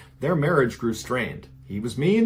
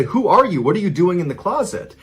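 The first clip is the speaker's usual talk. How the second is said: raised-voice police challenge, higher and louder; storyteller imitating officers yelling; retold yell; 6 semitones higher, 5 dB louder than usual. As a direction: call out the questions as if through a door, short of a full shout. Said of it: "they yell out to this woman".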